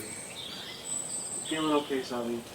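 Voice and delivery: slow soft concern; gentle whisper. Acted. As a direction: coax her softly, slowly. Lucius gently checks on her.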